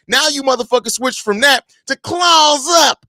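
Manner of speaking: loud, heated rant at the fans; angry rant. Real, not acted. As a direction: yell at them like they've lost their minds. Ranting at fans.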